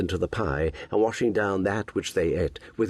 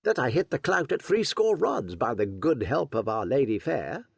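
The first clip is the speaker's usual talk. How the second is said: put-on bold young Robin; 5 semitones higher than usual. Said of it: "quoth bold Robin".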